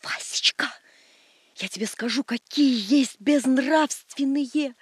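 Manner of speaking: slow, drawn-out words; drawing out each word. Acted. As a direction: stretch every word out slowly. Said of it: "растягивая каждое слово".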